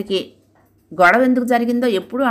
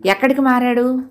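higher, eager worried asking; anxious question; 5 semitones higher than usual. Acted. Wife anxiously asking the watchman where the editor went, eager. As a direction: press him anxiously for the address. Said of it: "ఆతృతగా అడిగింది".

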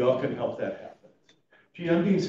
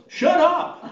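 loud, much higher burst through a laugh; laughing retort; 11 dB louder than usual. Retold or imitated. Mother on her deathbed laughingly telling the chaplain to shut up. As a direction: blurt it out like a cheeky old lady.

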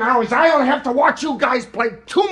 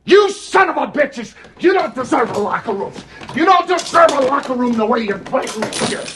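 angry coach chewing out team; halftime pep speech; 3 semitones higher than usual. Real, not acted. Coach yelling at losing team.

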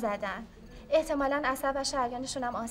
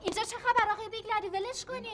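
alarmed; 8 semitones higher than usual. Acted. Nurse intervenes in scuffle.

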